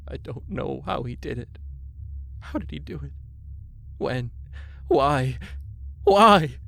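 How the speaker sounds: weeping into a scream. A narrator's reading. Grieving husband on the stoop, weeping then screaming. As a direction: break down, then wail to the heavens. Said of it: "he suddenly screamed".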